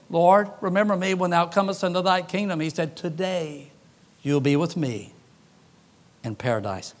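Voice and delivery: preacher voicing the thief and Jesus quietly; hushed and solemn. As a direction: speak it as a dying man's plea.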